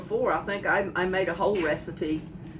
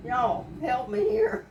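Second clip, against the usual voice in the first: teary plea; 4 semitones higher than usual. Real, not acted. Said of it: "I'm crying".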